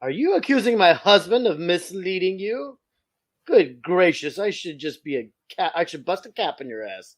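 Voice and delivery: mild prim-lady put-on; socialite lady. Socialite scolding Bart in a mild prim voice. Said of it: "a little too white for that line".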